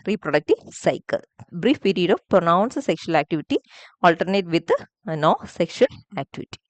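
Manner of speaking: very slow, word by word dictation; unhurried teacher dictation. Shown as a demonstration. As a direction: read the definition out slowly for students to copy. Teacher dictating the summary definition.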